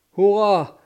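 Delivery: loud, high cheer of triumph; a ship's crew roaring hurrah. A narrator's reading. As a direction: shout it out in victory. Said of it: "råbte mandskabet".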